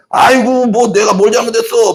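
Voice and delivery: high, put-upon whine of protest; indignant denial. Retold or imitated. Preacher acts a proud man shrugging off rebuke, high and whiny. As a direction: wave off the blame as if wronged. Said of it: "막 그냥 이러는 거죠".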